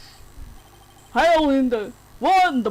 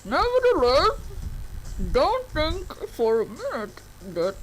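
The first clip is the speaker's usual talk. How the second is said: voice changer; 6 dB quieter than usual. Acted. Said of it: "using a voice changer".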